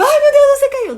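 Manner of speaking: shrill high panicked shriek; desperate panic. Shown as a demonstration. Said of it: "chegar desesperado". (mãe em pânico depois que a criança cai, gritando agudo e alto)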